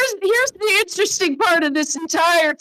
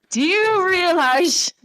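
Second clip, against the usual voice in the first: put-on laughing drunk complaint; 2 semitones higher than usual.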